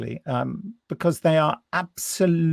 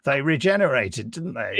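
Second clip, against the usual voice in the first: mock breezy; 4 semitones higher, 4 dB louder than usual. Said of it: "you can just go".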